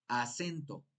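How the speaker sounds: "acento" stressed on the middle syllable: a-CEN-to. Shown as a demonstration. Teacher testing where the tonic syllable falls, "acento" stressed on CEN. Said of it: "tienes que ver dónde acento".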